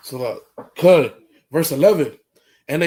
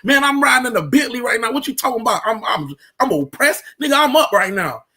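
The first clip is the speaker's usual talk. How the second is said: boastful rich brother; 4 semitones higher, faster than usual. Pretend. S1 keeps acting the boastful brother.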